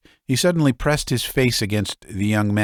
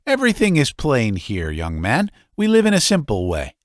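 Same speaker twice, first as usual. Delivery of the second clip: higher, louder, nervous hospitality; ashamed father showing his son the plain home, higher and eager; fussy old father; 5 semitones higher, 4 dB louder than usual. Acted.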